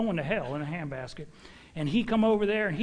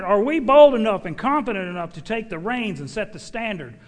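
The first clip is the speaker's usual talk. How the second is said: preached shout; 6 dB louder than usual. Acted. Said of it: "He shouted".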